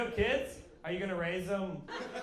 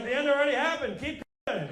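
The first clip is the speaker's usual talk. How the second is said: cheery pagan; 9 semitones higher than usual. Retold or imitated. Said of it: "You guys are like".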